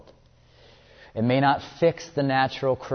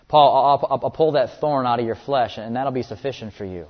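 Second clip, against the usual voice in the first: God calling to Paul; 6 dB louder than usual. Retold or imitated.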